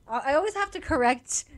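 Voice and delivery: giggling through the words; laughing. Real, not acted. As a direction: laugh it out, can't stop. Laughing fit.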